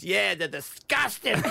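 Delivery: slow, scornful caretaker; mock disgust. Caretaker telling tourists possums are disgusting, mock scorn. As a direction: drag out the disgust.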